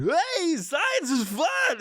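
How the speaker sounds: high, slow, shouted cheer; manic science host. Retold or imitated. Mocking the science guy to the audience, high slow shout. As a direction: bellow it like a deranged kids' show host. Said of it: "And he's going".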